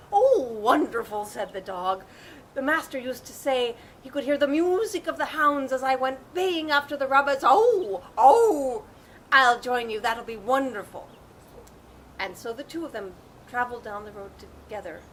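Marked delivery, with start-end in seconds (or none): 0.1-11.1 put-on excited old dog. Old dog overjoyed at the invitation.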